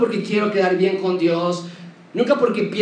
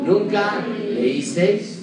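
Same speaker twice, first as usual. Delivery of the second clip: slow read-aloud; much slower than usual. Shown as a demonstration. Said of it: "leamos todos juntos en voz alta".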